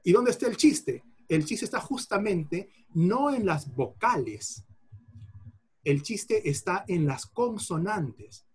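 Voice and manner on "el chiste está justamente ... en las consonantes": slow emphatic explanation. Real, not acted. Explaining the punchline.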